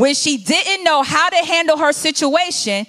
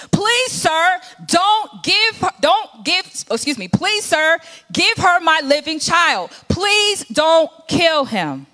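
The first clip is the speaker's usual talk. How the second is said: pleading mother; 3 semitones higher than usual. Acted.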